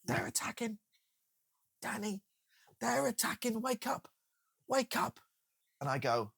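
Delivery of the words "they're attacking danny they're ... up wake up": high, urgent mock soldier shaking him awake; panicked soldier. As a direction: play the frantic comrade in the trench. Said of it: "someone shakes going".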